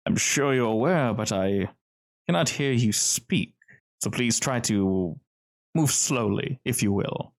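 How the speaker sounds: lightly voiced smooth, decisive host; velvet-smooth gentleman. Distinguished man addresses uninvited astral visitor, lightly velvet-smooth. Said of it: "as smooth as velvet".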